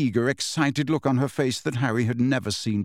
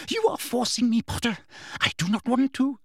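higher, sugary false regret; Umbridge's voice; 10 semitones higher than usual. A narrator's reading. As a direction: feign reluctance, prim and high. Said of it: "said Umbridge".

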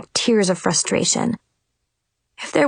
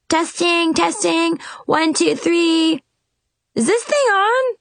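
mic check; 8 semitones higher than usual. A narrator's reading. Testing wand like a microphone.

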